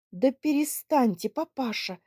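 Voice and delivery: angry cry. Acted. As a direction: snap at her father. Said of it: "сердцем крикнула". (сердито крикнув отцу)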